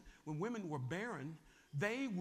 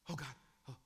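sheepish denial; 3 semitones lower, 6 dB quieter, faster than usual. Acted. Sarah caught, denies.

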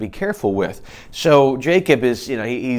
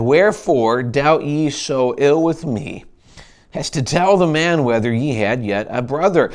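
slow, slightly raised reproachful read; Jacob's reproach; 3 semitones higher than usual. Acted. Jacob rebukes his sons, slow mild reproach. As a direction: lean into the hurt father.

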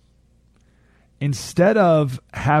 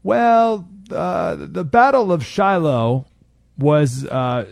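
student answering; 3 semitones higher, much slower than usual. Retold or imitated. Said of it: "and someone writes".

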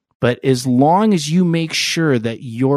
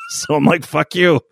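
laughing; 3 semitones higher than usual. Real, not acted. Laughing outburst.

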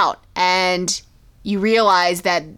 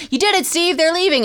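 put-on much higher excited kids; kids cheering Steve; 8 semitones higher than usual. Kids cheering Steve that the dogs left, high and excited. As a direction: lift it way up, relieved cheer. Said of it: "they're like".

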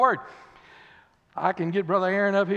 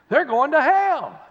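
laughing; 7 semitones higher, 7 dB louder, slower than usual. Real, not acted.

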